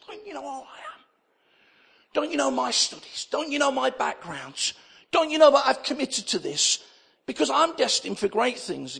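mock indignation, building as it goes; indignant rant. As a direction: play the outraged Harvard man. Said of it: "And this guy went mad".

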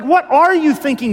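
high, indignant challenge at moderate volume; mock scream. Abigail imagined challenging David, mild mock scream. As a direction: lightly act out screaming at him. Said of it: "screaming the truth at him".

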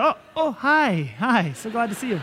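put-on laughing, bright welcome to a child at night; cheerful greeting. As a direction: greet him like you're thrilled he woke you. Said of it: "I get up now and say".

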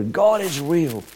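high, drawn-out mock cheer; lightly acted jubilant cry; crowd cheer. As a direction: imitate a cheering crowd without shouting. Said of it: "the people all cheer".

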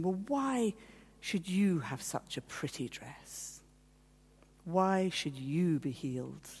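measured accusation, slow and deliberate; accusing. Retold or imitated. Second group questioning her healing, mildly accusing. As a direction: imitate a slow, pointed challenge. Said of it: "sort of accusing me".

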